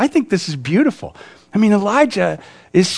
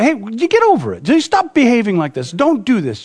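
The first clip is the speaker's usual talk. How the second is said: flippant; 4 semitones higher, 3 dB louder than usual. Retold or imitated. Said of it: "just flippantly say".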